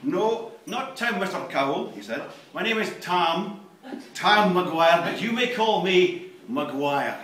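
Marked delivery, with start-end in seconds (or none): 0.0-1.9 firm correction. Acted. Character corrects name. 2.5-7.2 menacing self-introduction. Acted. McGuire introduces himself.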